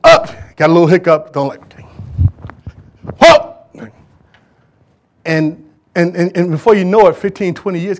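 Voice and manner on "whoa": mock surprise.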